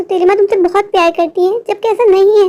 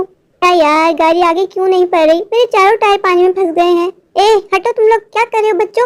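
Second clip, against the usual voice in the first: grumbling car driver; 2 semitones lower than usual. Acted. Driver stuck in flood water grumbles at kids, annoyed man voice. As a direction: grumble about careless parents and kids in the road.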